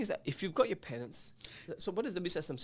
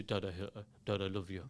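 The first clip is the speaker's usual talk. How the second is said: awkward son; 8 semitones lower, 5 dB quieter than usual. Retold or imitated. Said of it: "it'd be really hard for him to say that".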